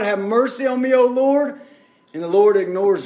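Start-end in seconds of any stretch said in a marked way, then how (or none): 0.0-1.6 higher cry, well short of a scream; mock screaming out. Preacher voices the woman begging the Lord, mild mock scream. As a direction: imitate a woman crying out for mercy. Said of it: "She's screaming out".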